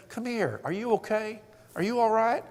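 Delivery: tender acted reassurance; acted comforting. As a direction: play a husband consoling his crying wife. Husband comforting his crying wife.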